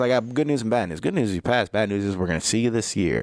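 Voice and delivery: play-acted snide, needling, passive-aggressive inspector tone. Retelling the car inspector's news: imitating a passive-aggressive inspector. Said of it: "he's being a passive aggressive dick".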